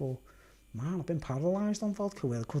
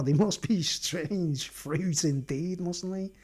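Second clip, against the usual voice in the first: slow, solemn mock tone; slow, mock-solemn verdict; mock grave; much slower than usual. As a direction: weigh each word like a judge. Mock grave remark on parents.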